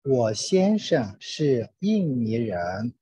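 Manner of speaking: normal talking voice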